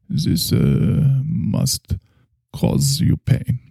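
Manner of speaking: slow, halting German doctor; German doctor, probing. Acted. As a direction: speak as a solemn German therapist, pausing often.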